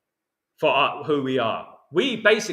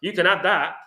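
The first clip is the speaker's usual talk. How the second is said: laughing refusal. Retold or imitated. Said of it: "I'd say".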